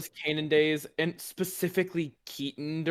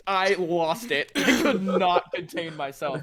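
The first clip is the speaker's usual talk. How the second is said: laughing; slower than usual. Real, not acted. Recalling breaking on stage.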